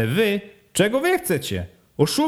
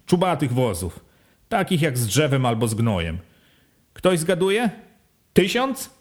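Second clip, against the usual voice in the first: a hint of a bossy village head; village head questioning; 3 semitones higher than usual. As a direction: quiz the villagers like a sly official.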